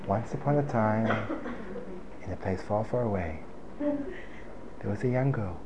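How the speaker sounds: hushed sing-song fairy-tale opening; sing-song storytelling. Shown as a demonstration. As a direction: lull them softly like a bedtime tale. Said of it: "I'll say it in my sing-song voice".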